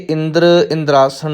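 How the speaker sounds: ਇੰਦਰ ਇੰਦਰਾਸਣ with an r after the d; wrong reading with r. Shown as a demonstration. Teacher showing what not to say, ਇੰਦਰ ਇੰਦਰਾਸਣ with r. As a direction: say "indar indraasan", sounding the r. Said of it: "ਨਹੀਂ ਕਹਿਣਾ".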